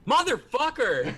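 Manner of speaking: high, loud, slow laughing yell; laughing curse. Real, not acted. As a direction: howl at the dice through laughter. Another failed insight roll.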